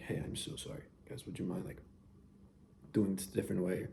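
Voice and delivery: soft, quiet, apologetic ask; super nice request. Retold or imitated. Asking someone politely to change, softly and kindly. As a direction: gently ask them to stop, no edge at all. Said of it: "Or you're, like, super nice about it".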